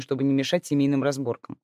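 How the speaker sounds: usual speaking voice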